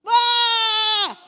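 loud, high scream of a cast sheep; sudden squealing cry; mock sheep scream. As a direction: yelp like a sheep stuck on its back.

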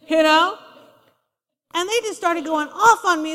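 usual speaking voice

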